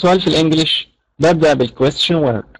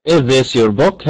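slow demo question; much slower than usual. Shown as a demonstration. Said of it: "زي مثلًا إيه".

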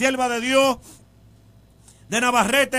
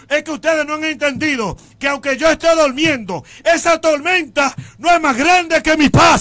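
rising to a firm declaration, louder at the end; commanding reply; 3 semitones higher, 3 dB louder than usual. Acted. Jesus answering the fearful apostles, building commanding voice. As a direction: build to a proclamation of peace.

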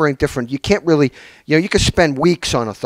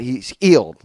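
put-on low, calm English accent; a hint of an English accent, matter-of-fact; 5 semitones lower than usual. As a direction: say it flatly in a lightly English accent. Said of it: "like that, his English accent".

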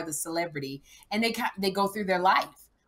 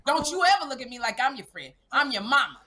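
mildly raised, acted scolding; Black mom version; 4 semitones higher than usual. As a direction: set the child straight as a mock-stern mom. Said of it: "This is the black version".

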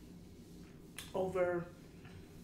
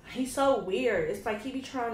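exasperated; 4 semitones higher, 5 dB louder than usual. Real, not acted. Complaining about the boy.

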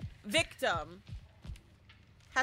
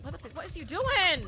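exasperated; 5 semitones higher than usual. Real, not acted. Scolding teammate in game.

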